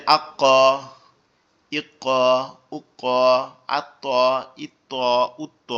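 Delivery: "আক, ইক, উক, আত, ইত, উত" each with a rebound on the last consonant; qalqala echo. Shown as a demonstration. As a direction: bounce the stopped ক and ত, pausing between syllables. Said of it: "কলকলা মানে হচ্ছে পাল্টা আওয়াজ". ("আক, ইক, উক, আত, ইত, উত" শেষ হরফে প্রতিধ্বনি দিয়ে)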